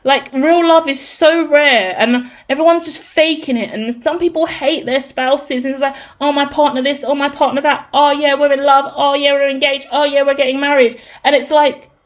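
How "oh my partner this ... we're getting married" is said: mock bragging couple, singsong list; mildly mocking boasts; mocking gloaters. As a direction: imitate smug couples, monotone and repetitive.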